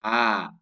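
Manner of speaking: A as a clear, wide-open sound; open-mouthed vowel. Shown as a demonstration. Teacher showing the fathah vowel for Quran reading, fully articulated. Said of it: "maka mulutnya harus terbuka".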